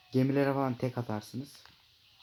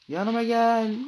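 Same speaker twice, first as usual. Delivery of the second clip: higher, loud "Yanıma gel" at normal pace; loud call; 10 semitones higher, 8 dB louder, slower than usual. Pretend. Calling the shark over.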